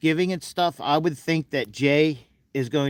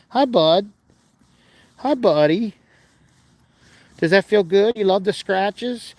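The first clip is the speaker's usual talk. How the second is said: higher-pitched greeting to a beloved animal; affectionate pet talk; 4 semitones higher than usual. Real, not acted. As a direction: coo over your animal as you scratch him. Fussing over his animal while scratching.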